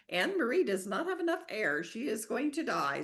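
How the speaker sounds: alarmed. Pretend. Brain panicking over lack of air.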